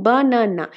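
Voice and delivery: বানানা slowly, broken into বা, না, না; বানানা in three separate beats; syllable by syllable. Shown as a demonstration. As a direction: demonstrate the breaks in বানানা, one syllable at a time. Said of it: "যখন যেখানে একটু ভাঙা পড়বে".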